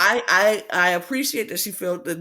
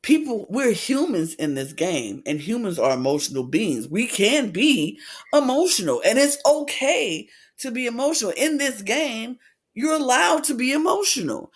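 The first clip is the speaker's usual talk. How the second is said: retold indignation; 5 semitones higher than usual. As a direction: act out her standing up for herself, point by point. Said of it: "She was not happy with that comment".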